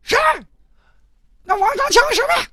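high-pitched challenging yell; boy yelling at the kids who beat his cousin; angry yell. Retold or imitated. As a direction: call out the bully, high and fierce. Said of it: "一吼子".

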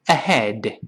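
very slow, each word drawn out; slow model. Shown as a demonstration. Teacher models the phrase before correcting it, very slow. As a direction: stretch "Go" and "ahead" apart.

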